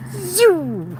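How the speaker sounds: high-pitched "zoom" falling away; drawn-out vrooming zoom; zooming bike noise. Retold or imitated. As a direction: imitate a fast bike whizzing past. Imitates a second bike passing.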